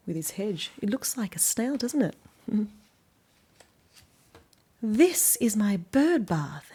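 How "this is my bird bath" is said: very slow, loud show-and-tell; Banjo storybook voice. Acted. Reader as Banjo showing children his bird bath, slow. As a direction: present it proudly and slowly. Banjo line read aloud.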